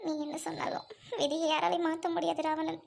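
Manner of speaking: tearful, voice catching between words; a woman weeping over her fate; crying. Acted. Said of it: "அழாத சீதா".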